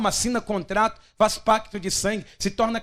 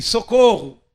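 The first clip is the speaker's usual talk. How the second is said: weak cry for help; 7 dB louder, slower than usual. Shown as a demonstration. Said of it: "diga aí".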